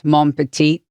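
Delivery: hammed-up bad Cajun accent. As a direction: toss it off in a jokey fake Cajun accent. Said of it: "bad Cajun accents".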